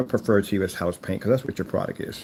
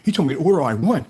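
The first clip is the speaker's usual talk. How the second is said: hammed-up fake amazement; sarcastic mock awe; 2 semitones higher than usual. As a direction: pretend to be overwhelmed, sarcastically. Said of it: "Do you think I'm gonna go".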